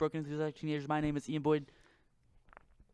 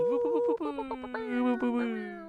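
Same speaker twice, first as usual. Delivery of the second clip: high excited woo-woo cheer; 10 semitones higher, slower than usual. Real, not acted. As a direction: whoop it up for the guest. Cheering for the guest.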